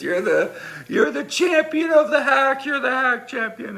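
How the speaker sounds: high-pitched mock acclaim; teasing cheer. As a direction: imitate guys razzing the champion. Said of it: "they're just laughing at Bob".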